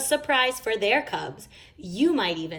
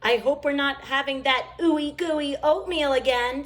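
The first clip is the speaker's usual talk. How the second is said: higher, bratty complaint; Mama playing a fussy cub; childish whine; 6 semitones higher than usual. A narrator's reading. Mama acting like a cub, complaining about oatmeal. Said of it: "screamed Mama".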